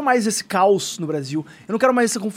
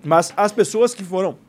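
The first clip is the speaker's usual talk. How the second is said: chewing while talking; slower than usual. Real, not acted. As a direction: mouth full of pizza. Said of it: "perdão, tô comendo de boca cheia". (falando de boca cheia)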